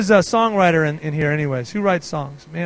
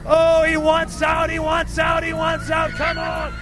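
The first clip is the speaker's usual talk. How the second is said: higher, building preacher's cry; rising ecstatic cry; 5 semitones higher, much slower than usual. Real, not acted. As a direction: stir the room up to a peak.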